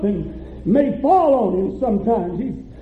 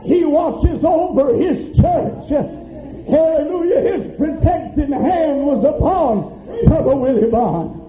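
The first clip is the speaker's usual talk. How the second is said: fervent preaching; 3 semitones higher than usual. Real, not acted. Preacher testifying that God watches over his children, fervent preaching. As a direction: proclaim it to the whole congregation.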